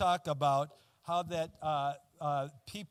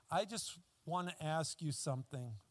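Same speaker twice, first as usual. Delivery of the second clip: weak voice; 2 semitones lower, 6 dB quieter than usual. Retold or imitated. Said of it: "this very weak voice".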